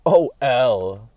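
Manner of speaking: a hint of a camp teasing Bill Gates; effeminate mockery. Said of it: "called him L effeminately".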